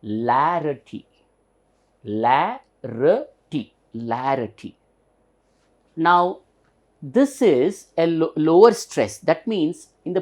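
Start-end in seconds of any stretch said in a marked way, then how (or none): 0.0-4.7 teacher slowly modelling "larity"; syllable demo. Shown as a demonstration. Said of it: "This becomes".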